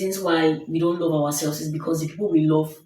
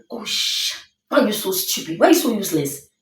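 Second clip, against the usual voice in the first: imitating his merciless self-berating, rising higher as it goes; mock beating yourself up over a mistake; harsh self-scolding; 3 semitones higher, faster than usual. Man berating himself for forgetting something at work, imitated harsh scolding. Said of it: "he spoke to himself so harshly".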